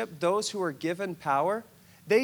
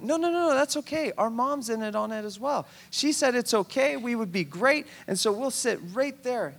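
eager brush-off; 5 semitones higher than usual. Acted. Brothers brushing off Jesus, high eager insistence. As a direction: wave the objection away, all eager.

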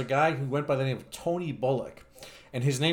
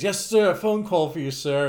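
higher-pitched mock butler announcement; 3 semitones higher, 4 dB louder than usual. Butler fetching his employer for a phone call, mock-formal. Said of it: "there was a butler in tails".

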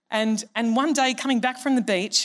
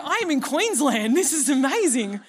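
gushing, higher, half-joking delight; a playful wow, amazed in Queensland; mock amazed; 4 semitones higher than usual. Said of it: "I'm like".

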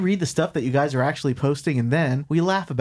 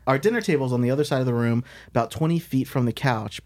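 fast; faster than usual. Shown as a demonstration. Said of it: "Our dinner table is on".

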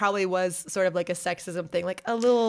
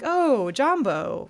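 friendly greeting; 7 semitones higher, 5 dB louder, much slower than usual. Retold or imitated. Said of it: "she just tried to be friendly".

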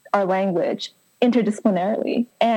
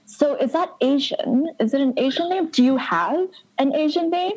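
high, prying mock voice of a curious stranger; higher, lightly mocking interrogation; mocking questioner; 7 semitones higher than usual. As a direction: parody the nosy person asking about her name. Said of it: "ask me, like".

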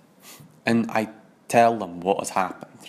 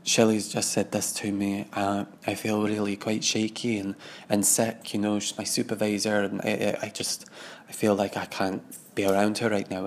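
faking welling up; 5 dB quieter than usual. Retold or imitated. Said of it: "I made sure I welled up a little bit".

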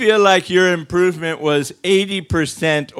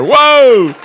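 wild high whooping cheers; rowdy party animal; 7 dB louder, slower than usual. Real, not acted. Cheering as woman climbs stairs.

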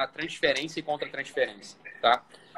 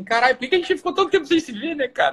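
higher, eager reunion cry; excited reunion; 6 semitones higher, 3 dB louder than usual. Retold or imitated. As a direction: call out happily to an old friend. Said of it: "você fala assim".

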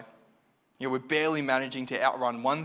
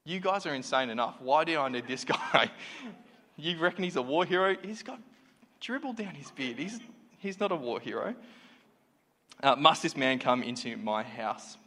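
mocking king Achish; 3 semitones higher than usual. King Achish scoffing at David before his servants, mild mock scorn. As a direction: sneer at the madman like a fed-up king. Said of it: "I read that so much as like".

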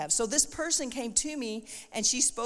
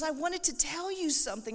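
mimicking someone eager to share news, higher voice; bubbly; 6 semitones higher than usual. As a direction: lightly imitate her bubbly, raised pitch. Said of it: "she was, like, all bubbly".

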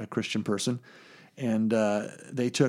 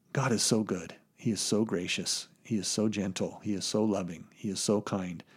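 gently reverent, voice dropping softer with each phrase; tender awe; 3 semitones lower, 5 dB quieter than usual. Acted. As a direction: let the awe hush you as you list his goodness. Marvelling softly at God's grace.

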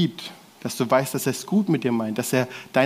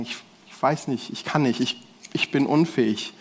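helpless Jesus; 2 semitones lower than usual. Retold or imitated. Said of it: "würde er sagen".

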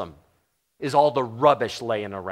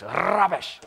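Rubbish in a British accent, higher; 4 semitones higher than usual. Shown as a demonstration. Preacher repeating the word in a British accent. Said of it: "If you say it with the right accent, it really, really works".

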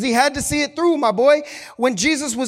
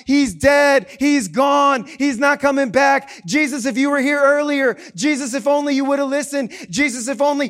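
mourning crowd; 4 semitones higher, 4 dB louder than usual. Acted. Mourning crowd wails at Jesus.

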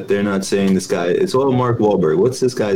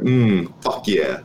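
creepy lip-biting groan; much slower than usual. Retold or imitated. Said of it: "do the Benny look".

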